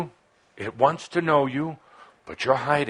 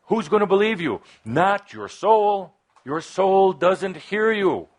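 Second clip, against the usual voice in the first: passionate preaching; 7 semitones higher, 5 dB louder than usual. Real, not acted. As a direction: hammer it home to the crowd, each word heavy. Preacher urging the audience to feel.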